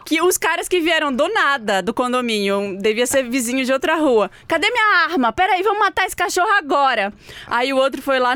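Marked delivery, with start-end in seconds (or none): 4.5-7.1 threatening man. Retold or imitated. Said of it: "Assim, desse jeito".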